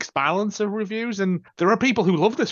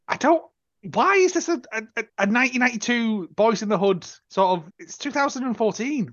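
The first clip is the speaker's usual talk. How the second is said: high, baffled disbelief; incredulous; 5 semitones higher than usual. Real, not acted. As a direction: ask it in sheer disbelief. Incredulous rant.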